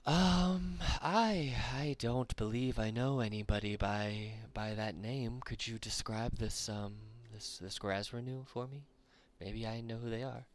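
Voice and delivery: a lightly voiced hobgoblin, polite and puzzled.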